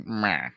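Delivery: imitating death cry. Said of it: "I love her death cry".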